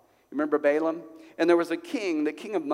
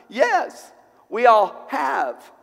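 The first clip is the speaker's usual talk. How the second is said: much louder and higher, slow and forceful; preaching shout; 8 semitones higher, 7 dB louder, much slower than usual. Real, not acted. Preacher answers the congregation's doubt, slow forceful shout. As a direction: drive it home to the whole room.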